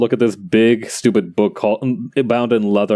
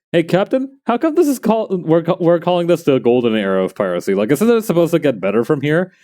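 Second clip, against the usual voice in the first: lightly voiced sailor, high at the start; questioning pirate crewman; 6 semitones higher than usual. Pirate crewman questioning the captain about the golden era, lightly acted puzzlement. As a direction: pipe up to the captain, higher at first. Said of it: "a guy in the golden era of piracy was like".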